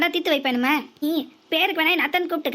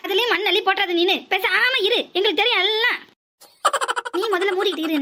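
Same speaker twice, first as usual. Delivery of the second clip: laughing scold; 3 semitones higher than usual. Acted. Scolding son while laughing.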